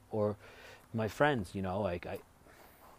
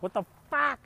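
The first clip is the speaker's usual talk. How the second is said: retold shocked what; 14 semitones higher, 3 dB louder than usual. Retold own exasperation.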